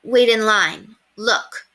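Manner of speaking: put-on high, loud eager child; eager little boy pointing it out; child calling out. Child's excited call.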